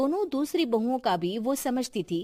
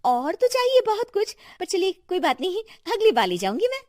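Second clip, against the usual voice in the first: greedy bahu; 10 semitones higher, faster than usual. A narrator's reading. Greedy youngest bahu answers.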